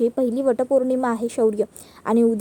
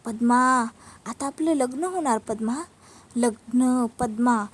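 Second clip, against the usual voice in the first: deliberately intimidating. Acted. Vikrant scaring Padma about their coming wedding, taunting. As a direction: stretch the words to frighten her. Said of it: "Vikrant मुद्दामून पद्माला घाबरवत असतो".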